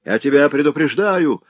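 knife-wielding brother yelling a threat. A narrator's reading. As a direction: bellow the warning. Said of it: "вопил он".

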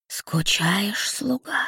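lisping demon voice; a hissing lisp, teasing; slushy lisp. Acted. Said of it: "спросил шепелявый голос". (шепелявый голос беса)

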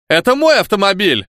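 burly man in a squeaky falsetto; falsetto exclaim. A narrator's reading. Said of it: "фальцетом воскликнул бык".

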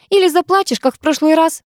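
high-pitched goading question; taunting. A narrator's reading. Girl taunting boy about crying last time. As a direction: needle him with it. Taunting an old sparring partner.

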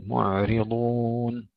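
"معرضون" slow, thin raa and heavy daad, ʕayn still; correct tajweed. Shown as a demonstration. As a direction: say "معرضون" slowly, raa light, daad full. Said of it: "ونرقق الراء ونفخم الضاد".

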